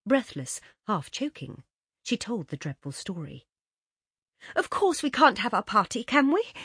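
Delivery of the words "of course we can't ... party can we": higher, louder urgent plea; begging her mother to cancel; pleading. Acted. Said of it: "she pleaded".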